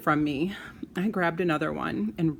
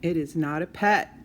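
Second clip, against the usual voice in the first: yelling; 4 dB louder than usual. Acted. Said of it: "I yelled back".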